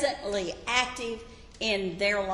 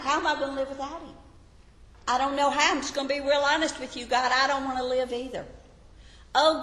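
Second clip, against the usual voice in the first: pleading, rushed and pitched up, crying out to God; desperate widow's prayer; 3 semitones higher, faster than usual. Pretend. Preacher acts out a widow lamenting to God, pleading. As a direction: spill it out fast like a grieving widow begging God. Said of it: "It would look like this".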